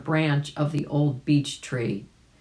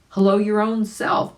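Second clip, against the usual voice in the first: shouted; 6 semitones higher, 5 dB louder than usual. Acted. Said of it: "shouted Jerry Muskrat".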